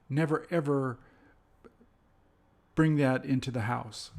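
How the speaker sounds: mild stern stress on "ever" and "never"; emphatic warning examples. Shown as a demonstration. Teacher voicing stern don'ts as examples. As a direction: lean on "ever" like a firm warning. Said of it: "used for emphasis not to do".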